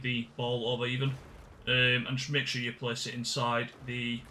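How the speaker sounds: even, instructional walkthrough voice; video guide narration. Acted. Streamer showing viewers how to do the puzzle, instructional. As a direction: talk viewers through it step by step.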